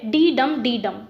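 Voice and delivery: डी डम डी डम as alternating weak and strong beats; डी light, डम weighted, in a steady pattern; rhythmic beat. Shown as a demonstration. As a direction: chant out the meter, each डम landing as the beat. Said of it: "एक rhythm type की बन जाती है".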